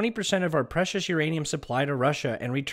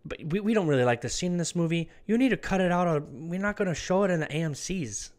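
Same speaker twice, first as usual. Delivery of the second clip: mock Chinese accent; 3 semitones higher than usual. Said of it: "I can't do a Chinese accent very well".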